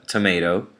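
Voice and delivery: tomato again with the American MAY vowel. Shown as a demonstration. Teacher repeating the American tomato. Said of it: "an American would say".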